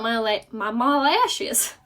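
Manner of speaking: slight southern slip on the vowels; southern accent. Real, not acted. Beauty vlogger stumbling over her lashes, southern accent slipping out. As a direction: let a southern accent creep in, drawn out. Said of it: "I don't know where the southern".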